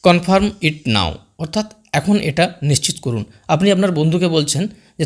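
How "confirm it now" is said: slow teaching demo. Shown as a demonstration. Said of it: "next sentence".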